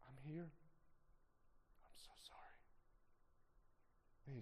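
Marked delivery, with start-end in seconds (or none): 0.1-0.5 soft comfort. Retold or imitated. Retold comforting of grieving friend. 1.8-2.6 breathy whispered sorry, barely voiced; whispered apology. To a grieving friend, a soft whispered sorry.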